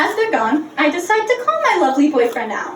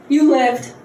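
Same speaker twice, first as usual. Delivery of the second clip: dad yelling at the bike; 5 semitones higher than usual. Retold or imitated. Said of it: "He goes".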